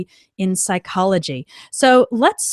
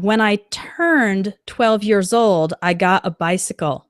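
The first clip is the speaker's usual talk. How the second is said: slow model sentence; 2 semitones lower than usual. Shown as a demonstration. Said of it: "Good job".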